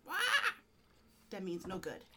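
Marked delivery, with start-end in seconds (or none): 0.1-0.1 warning yell. Shown as a demonstration. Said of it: "If I go".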